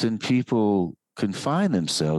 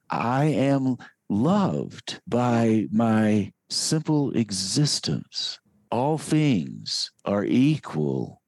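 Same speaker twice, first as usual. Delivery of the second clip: unhurried loving self-affirmation; slow affirmation; slower than usual. Shown as a demonstration.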